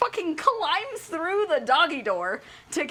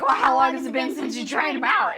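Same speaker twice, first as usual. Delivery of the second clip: louder, half-shouted question; loud mock question; 4 semitones lower, 5 dB louder than usual. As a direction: press him loudly on it. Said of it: "And she's like".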